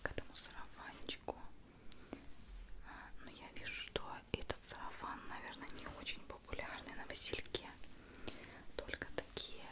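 usual speaking voice

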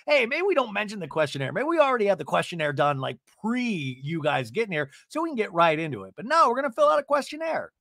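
fast, rising exasperated rant; exasperated mock rant. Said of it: "I'm like".

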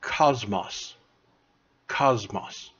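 cosmos said twice, slow and clear; model pronunciation. Shown as a demonstration. Teacher modelling a Greek word for class, clear and careful. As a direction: say cosmos carefully for students to repeat. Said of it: "is the word".

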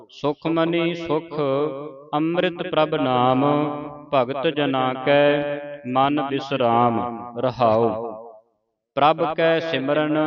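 slow, measured sacred reading; scripture recitation. Shown as a demonstration. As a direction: intone each phrase with long final sounds. Models scripture recitation phrase by phrase.

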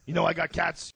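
loud, affronted comic loudmouth; Joey Diaz. Acted. Impersonating the friend defending his cats, mock-affronted. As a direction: bristle in a brash mock tirade. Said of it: "Diaz complains about shit".

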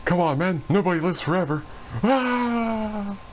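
light impression of a movie octopus. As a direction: quote the cartoon line, ending in a mock cry. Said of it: "the octopus is like".

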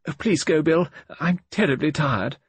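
tired invalid. A narrator's reading. Tired invalid sends visitor away.

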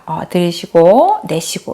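slow, drawn-out breathing cue; breathing instruction. Retold or imitated. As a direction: guide the child through in and out slowly. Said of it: "숨을 한번 쉬어봐". (천천히 숨쉬기를 이끄는 말투)

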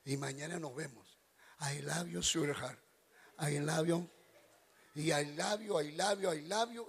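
soft, low lover's murmur; tender sweet talk. Retold or imitated. Young man softly sweet-talking his girlfriend goodnight. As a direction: coo it softly to your girlfriend. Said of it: "Y yo le decía".

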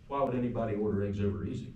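quick retort at ordinary pitch; retold dry comeback, rattled off evenly; deadpan comeback. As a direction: throw the question straight back, unruffled. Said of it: "he just looked at me and said".

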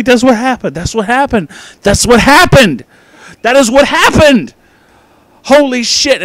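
high, loud yell building to a peak; incredulous shouting. Acted. Reviewer realizing what movie he watched, shouting incredulously. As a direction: yell it in escalating outraged disbelief.

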